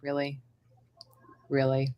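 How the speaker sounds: low, deadpan self-mockery; wry, put-upon complaint; sarcastic. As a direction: grumble drily at your own bad luck. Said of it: "sarcastic to my own self".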